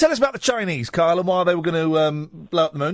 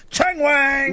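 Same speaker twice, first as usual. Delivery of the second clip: Wayne; 6 semitones higher than usual. Retold or imitated. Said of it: "Wayne used to say in Wayne's World".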